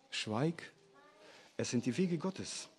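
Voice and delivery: low, soft and firm, like silencing someone; quietly but firmly cut him off; hushed rebuke. A narrator's reading. Begleiter weist Einsiedler zurecht. (leise, tiefe Zurechtweisung)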